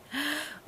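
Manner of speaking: sharp startled intake of breath; frightened gasp. Acted. Ulali gasping as the shark jumps out, startled. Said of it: "Ulali shrieked".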